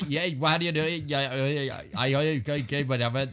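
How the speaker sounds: mumbled run of Australian noises; mock Australian gibberish. Shown as a demonstration. Following friend's coaching, Australian gibberish. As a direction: babble vaguely in an Australian accent. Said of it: "you don't have to speak words".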